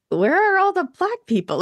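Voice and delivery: surprised exclaim. Retold or imitated. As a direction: exclaim it in open disbelief. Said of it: "And I was like".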